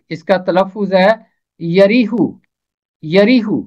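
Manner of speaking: यरीहू said ya-ree-hoo, with a clear u on the h; correct pronunciation. Shown as a demonstration. Teacher giving the Urdu pronunciation of यरीहू as ya-ree-hoo. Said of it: "हे के ऊपर पेश है".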